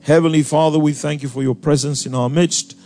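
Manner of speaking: earnest, steady prayer voice; public prayer. Real, not acted. Leads an opening prayer.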